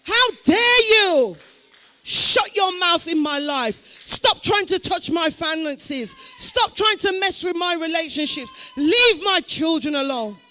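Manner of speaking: How dare you, hammered out slowly; rebuking the enemy. Acted. Preacher shows the church how to rebuke the enemy angrily. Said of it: "Begin to turn your attention to this and say".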